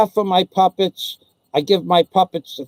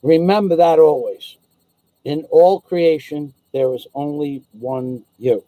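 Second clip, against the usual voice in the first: Bing Permy's blessing; 3 semitones lower than usual. Acted. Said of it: "Bing Permy blessing".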